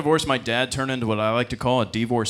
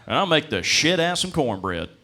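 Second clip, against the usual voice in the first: proud redneck voice; 4 dB louder than usual. Retold or imitated. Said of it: "He goes".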